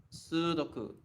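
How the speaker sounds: "Sudoku" with a held "soo" and short "doku"; Japanese pronunciation of Sudoku. Shown as a demonstration. Teacher repeating the corrected word, Japanese pronunciation. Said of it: "Actually, it's Sudoku".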